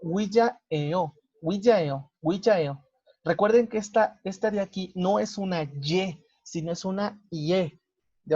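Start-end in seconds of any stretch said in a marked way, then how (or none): 0.0-2.8 Ouijaeo repeated, clean wi-ja-e-o with no ye; Korean pronunciation demo. Shown as a demonstration. Teacher drills Ouijaeo for students, repeated demo. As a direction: say Ouijaeo three times, fluid. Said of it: "nada más suena e, yo".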